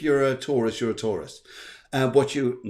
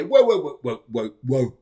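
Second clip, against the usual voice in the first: mock whoa; 6 dB louder than usual. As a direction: rein in a runaway horse, playfully. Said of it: "Jupiter just saying".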